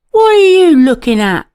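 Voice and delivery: loud, fast tearful blubber. A narrator's reading. Frustrated boy blubbering at the staring pony. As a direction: blurt it out half crying in frustration. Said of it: "blubbered Alfie".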